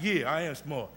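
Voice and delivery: chuckled playful brag; laughing, proud boast. Retold or imitated. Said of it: "'cause I said".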